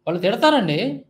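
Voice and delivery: తిడతారండి mocked with a rising, sing-song end; a mocking echo of John Babu's excuse; mocking imitation. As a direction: mimic his shrug, ending తిడతారండి on a rise. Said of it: "ఏదో licence ఇచ్చేసినట్టు మాట్లాడుతున్నాడు".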